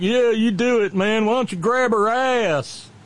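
high-pitched mock cheering on; egging-on supporters. Imitating Americans cheering on the heckler, high mocking goad. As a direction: goad him like a rowdy fan. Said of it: "millions of Americans who are like".

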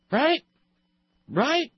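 very high rising hammed-up British "Right?"; mock British accent. Host teasing his co-host, mock British accent. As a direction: toss off a cheeky fake British question. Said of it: "I sound like an advertisement for Arthur Treacher's".

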